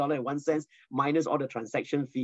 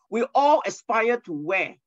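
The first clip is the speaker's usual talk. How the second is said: rhetorical question; 5 semitones higher, 3 dB louder than usual. Shown as a demonstration. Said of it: "There's a spelling mistakes here".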